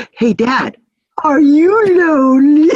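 put-on high, loud little girl asking; curious little daughter. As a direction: ask it like an innocent kid. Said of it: "come over and go".

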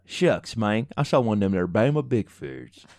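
a lightly put-on Alabama country accent; hokey Southern accent. Joking to his co-host about the Bama Bigfoot, in a mock Southern accent. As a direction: play a backwoods Alabama local, half-joking. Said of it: "I don't know what kind of accent that was".

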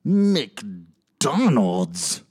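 high, slow mock voice turning to a surprised McDonald's; groggy husband. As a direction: play the sleepy man pleased, then puzzled. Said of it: "he's like".

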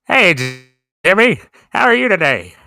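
lightly voiced old man greeting a child; halting, kindly mock-grandpa hello; forgetful grandpa. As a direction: play a grandpa fumbling for the name. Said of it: "Dale, you're the grandpa that forgets".

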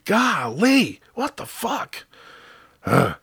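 high, squeaked comic outrage; mock exasperation. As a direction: whine it way up high in pretend frustration. Comic outrage at fake lottery wins.

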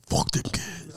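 high, mocking imitation of his friend; mocking quote. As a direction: quote him in a high, taunting voice. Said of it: "that nigga said".

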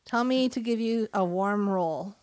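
playful attempt at a Russian accent; put-on Russian accent. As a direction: try out a Russian accent on a made-up line. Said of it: "And Russian accents".

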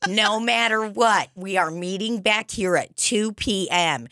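lightly voiced bossy parent chaperone; mock parent addressing a field trip; annoying parent voice. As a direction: lay down the rules like an annoying parent. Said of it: "an annoying parent voice".

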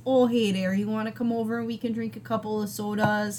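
lightly exaggerated Wisconsin invitation; friendly Midwestern accent with long O; own Wisconsin accent. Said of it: "then you get this".

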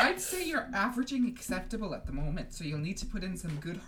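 lightly voiced strict professor; a hint of a brisk teacher's put-on accent; McGonagall read aloud.

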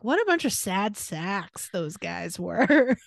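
slow, scoffing put-on voice; mock scornful roommates. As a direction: sneer at those sad guys, slowly. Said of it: "me and my roommates being like".

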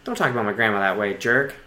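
low, soft scolding; hurt, muted rebuke. Acted. Jimmy defending his grandma to crewmate, low and hushed. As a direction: drop low and quiet, wounded.

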